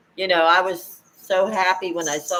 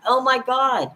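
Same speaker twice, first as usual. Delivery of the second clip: mock panic; 6 semitones higher than usual. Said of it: "And I start to panic".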